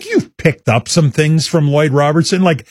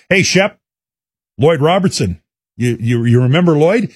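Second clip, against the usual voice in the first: casual, slightly raised passing greeting; 4 semitones higher than usual. Retold or imitated. Host casually asking a newsroom colleague about Lloyd, casual. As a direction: toss it out casually, a touch higher. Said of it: "I just casually said to him".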